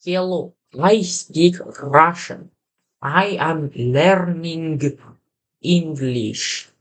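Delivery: slow, drawn-out Russian accent. Shown as a demonstration. Learner trying to fake an accent, slow Russian accent. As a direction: stretch out every word in a put-on Russian accent. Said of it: "trying to speak in a Russian accent".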